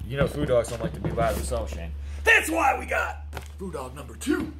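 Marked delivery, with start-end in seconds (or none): 2.2-4.5 loud, slow excited reveal; excited announcing. Real, not acted.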